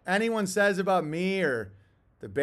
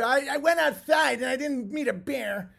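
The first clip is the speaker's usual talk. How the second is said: whiny quitter; 3 semitones higher than usual. Retold or imitated. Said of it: "don't be".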